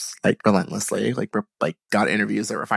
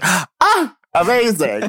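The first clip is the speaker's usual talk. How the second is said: mock thrilled gasp; 10 semitones higher, 4 dB louder, much slower than usual. Acting out her own thrilled reply.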